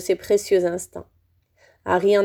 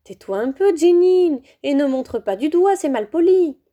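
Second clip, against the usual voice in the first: higher, a touch louder motherly reproach; scolding mother; 6 semitones higher, 3 dB louder than usual. A narrator's reading. Mrs Weasley hushing Ginny, light mild scolding. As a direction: hush a child who is pointing.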